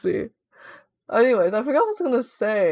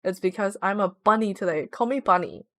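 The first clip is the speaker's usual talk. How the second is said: cutesy bunny voice; 3 semitones lower than usual. Pretend. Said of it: "I don't typically talk like that".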